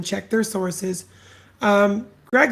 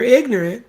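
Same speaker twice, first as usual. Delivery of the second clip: ignorant leaned on, a bit louder; stress on ignorant; 4 semitones higher, 5 dB louder than usual. Real, not acted. Ranting about followers, ignorant stressed. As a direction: push the word ignorant. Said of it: "I emphasize the word ignorant".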